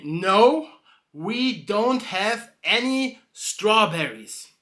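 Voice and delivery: slow, clipped-off refusal; curt barkeep. Acted. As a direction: keep it short and slow, annoyed. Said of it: "he's saying".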